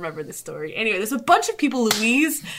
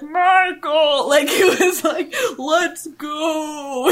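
giddy call; 5 semitones higher, much slower than usual. Retold or imitated. Calling to Michael while high.

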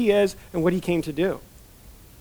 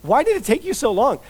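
puzzled surprise; 6 semitones higher than usual. Retold or imitated. Voicing boy Jesus' surprised question.

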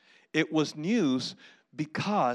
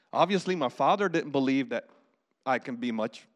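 lower, mildly dejected; defeated retreat; 5 semitones lower than usual. Acted. David imagined retreating from his brother, defeated. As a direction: play giving up, voice sinking. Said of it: "would just retreat and say, "Okay, I'm done".

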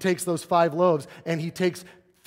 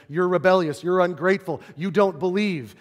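louder, raised scolding of the crowd; Jesus scolding an unbelieving crowd, louder and stern; stern rebuke; 4 semitones higher, 6 dB louder than usual. Acted. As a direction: call them out firmly, like a rebuke. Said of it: "Jesus says".

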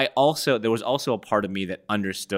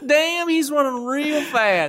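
goofy hick voice; 4 dB louder, slower than usual. Pretend. Goofy voice bit.

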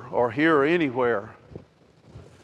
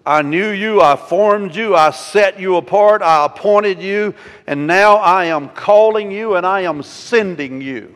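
raised sermon cadence in measured phrases; emphatic preaching; 5 semitones higher, 8 dB louder than usual. Real, not acted. Preacher speaking God's call to the church, emphatic preaching. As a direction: declare each phrase as a solemn calling.

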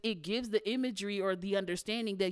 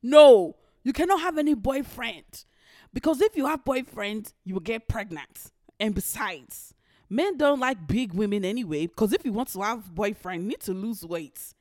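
stern mother; 2 semitones higher, 4 dB louder than usual. Retold or imitated. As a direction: bark the refusal like a strict mom. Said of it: "and she goes".

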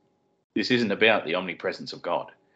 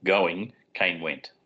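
slow emphatic quote; much slower than usual. Shown as a demonstration. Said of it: "It literally says".

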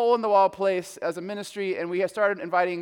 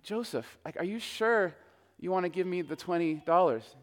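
soft question; 5 dB quieter than usual. Retold or imitated. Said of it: "I'm like".

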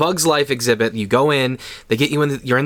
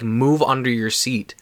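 ordinary delivery

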